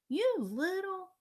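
high, loud, drawn-out exasperation; angry outburst. A narrator's reading. Peter reacts to Fudge's ice prank, angry outburst. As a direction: start telling off a pesky brother.

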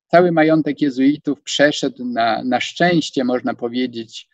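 ordinary talk, nothing marked

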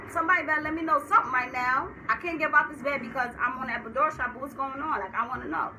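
high, loud, insistent protest; agitated demanding. Retold or imitated. Acting demands to see her baby.

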